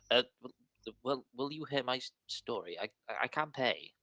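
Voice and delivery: stammering, a hint of a worried gnome; nervous gnome. Gnome begs the adventurers for help, stammering nervously. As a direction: plead haltingly, lightly voiced. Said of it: "nervously cracks his voice".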